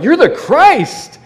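high, drawn-out mock demon cry. Demons stand up and cry out at Jesus, high and stretched. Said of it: "they're like".

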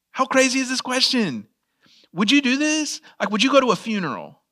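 high-pitched disbelief; incredulous. Real, not acted. Preacher questioning how crazy the question is, incredulous. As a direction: ask it in high, astonished disbelief.

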